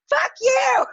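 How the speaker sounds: high, loud tearful yell; angry shout. Retold or imitated. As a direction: scream it at them through tears. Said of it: "I am angry, and I am, like, crying".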